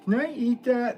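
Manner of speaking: very high, loud squeaky question; mock the chat voice in a squeak; imitating a viewer's voice. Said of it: "That's how I hear your voice".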